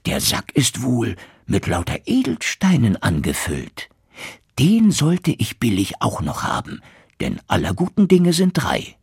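lightly voiced scheming innkeeper thinking aloud; greedy innkeeper. Innkeeper scheming to steal the sack, a hint of greedy glee. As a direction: plot the theft with rising glee. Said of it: "dachte er".

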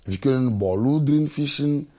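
ordinary talk, nothing marked

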